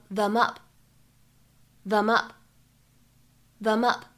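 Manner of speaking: "them up" run together as one word; linking. Shown as a demonstration. Teacher models linked "them up". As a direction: slide "them" straight into "up". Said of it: "可以变成".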